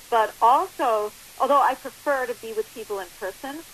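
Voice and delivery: phone line sound; talking down a phone line; over the phone. Real, not acted. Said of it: "obviously we're on the phone right now".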